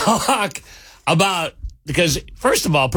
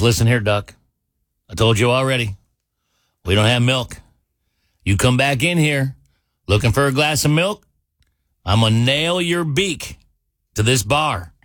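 threatening bartender; 3 semitones lower than usual. Acted. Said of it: "gets really close to the duck".

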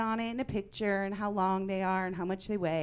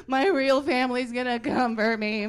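imitating a kid's high, loud panic; panicked wail; 5 semitones higher, 9 dB louder than usual. Little sister panicking she's adopted, mock wail. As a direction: freak out like a scared little girl, louder and higher. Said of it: "She started freaking out".

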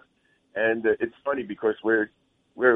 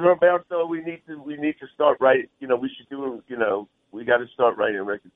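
put-on Spanish accent; 2 semitones higher than usual. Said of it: "so I, I go into my Spanish accent".

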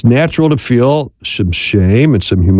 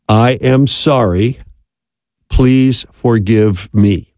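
sincere apology; slower than usual. Shown as a demonstration. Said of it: "simply say these six very powerful words".

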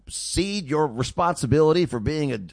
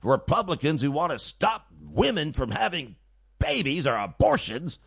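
mock Mika emotional; 3 semitones higher than usual. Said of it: "that's how she talks".

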